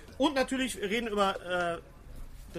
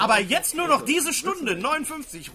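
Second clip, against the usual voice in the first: teleshopping announcer; 4 semitones higher, 5 dB louder than usual. Pretend. Mock teleshopping pitch.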